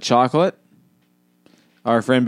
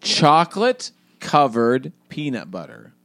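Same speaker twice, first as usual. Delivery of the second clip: slow; slower than usual. Shown as a demonstration. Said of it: "let's just go slow and dissect this".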